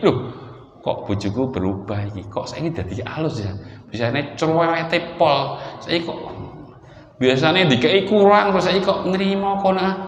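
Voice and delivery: puzzled musing with rises in pitch; surprised husband. Acted. Husband wondering at his wife's changed behaviour, mildly surprised. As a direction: lightly act out a husband's disbelief. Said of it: "supaya nanti suaminya kaget".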